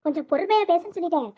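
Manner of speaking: stern, angry warning; scolding yell. Acted. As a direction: order her to keep it down, temper rising. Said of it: "என்ன எதுக்கு கத்துறீங்க?". (கோபமான அதட்டல்)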